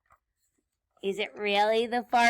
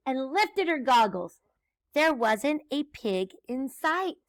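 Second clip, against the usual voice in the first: lively, slightly raised read-aloud; story read to children; 3 semitones higher, 4 dB louder than usual. A narrator's reading. Teacher reads Grinch's broomstick trip to children, lively storytelling. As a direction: narrate a picture book with bounce.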